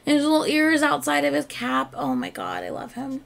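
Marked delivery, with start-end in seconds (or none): 2.0-3.2 whispered under the breath, overwhelmed; a soft awed whisper; breathless whisper. Real, not acted. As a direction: breathe it out, too smitten to voice it. Gushing over the cute singer.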